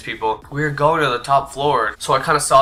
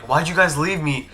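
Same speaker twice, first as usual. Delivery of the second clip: higher-pitched wounded complaint; guilt-tripping; 4 semitones higher than usual. Retold or imitated. Salty kid to his buddies, mock wounded guilt trip. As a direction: lay on the guilt, acting hurt. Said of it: "I'm gonna kinda guilt trip them".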